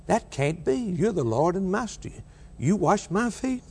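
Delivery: high, rising incredulous question; incredulous Peter. Acted. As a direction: act out Peter's disbelief at the Master washing his feet.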